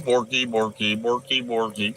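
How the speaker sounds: a hint of a yapping dog; lightly voiced dog noises; mock barking. Dancing streamer playing the corgi, mild yapping.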